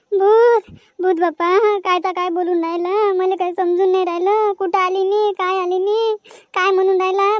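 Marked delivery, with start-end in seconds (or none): 0.1-1.2 loud cry of "भूत"; frightened shout. Acted. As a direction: yell "ghost!" in fright. Sees the ghost. (भुताला पाहून ओरडणं)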